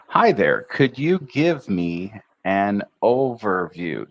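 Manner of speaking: slow, even teacher read of Hi there could you give me an overview; careful model sentence, each word placed; chunked model line. Shown as a demonstration. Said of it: "Two words here".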